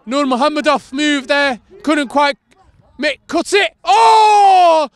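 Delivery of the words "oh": surprised oh. Real, not acted. Back heel attempt.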